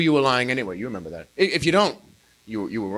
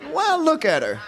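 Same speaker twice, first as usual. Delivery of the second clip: high protest: "Well, look at her" called out higher; indignant kid; 10 semitones higher than usual. Acted. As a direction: protest again like a cheeky child. Same protest repeated.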